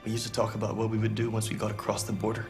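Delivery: grieving. Acted. Grieving over lost loved one.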